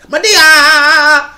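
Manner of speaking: loud, high shout of the name; big mock yell of Madea; mock Madea call. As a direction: holler it like Madea making an entrance. Calling out Madea after clip.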